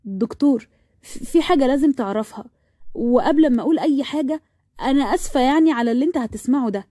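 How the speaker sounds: hesitant, mildly nervous confession. Acted. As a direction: stumble slightly, then apologize uneasily. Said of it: "قعدت وقالت بتوتر".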